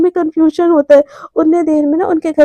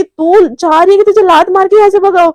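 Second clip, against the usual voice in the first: raised, louder annoyed threat; angry threat; 4 semitones higher, 5 dB louder than usual. Acted. Mishka ordering Romi out of the room, angry. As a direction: threaten to kick them out, fed up. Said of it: "दिमाग इतना खराब होता है".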